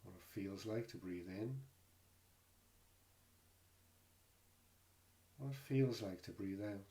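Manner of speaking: calm, unhurried meditation guide with long pauses; guided meditation. Real, not acted. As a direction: gently guide listeners into the body, leaving space between phrases. Leads a body scan meditation.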